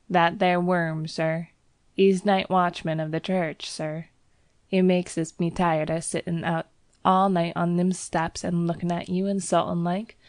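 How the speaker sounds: lightly Cockney, indignant servant; sniffing Cockney disdain; Cockney bell boy. Acted. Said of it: "Thomas's Cockney dialect".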